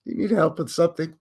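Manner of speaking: lightly voiced suspicious helpfulness; polite Karen. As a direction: mimic the 80 percent Karen. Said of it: "She's not full-on Karen".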